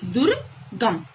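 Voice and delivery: very slow, deliberate दुर्गम; slow model word. Shown as a demonstration. Teacher showing the joined word to pupils, very slow. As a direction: stretch दुर्गम out so pupils catch it. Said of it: "दुर plus गम".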